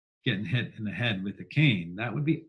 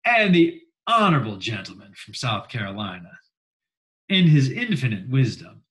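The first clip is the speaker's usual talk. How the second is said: senatorial politeness; 5 dB louder than usual. Acted. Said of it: "you always say something like".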